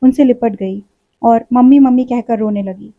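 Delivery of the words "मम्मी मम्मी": sobbing call. Acted. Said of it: "हिलक हिलक कर रोती".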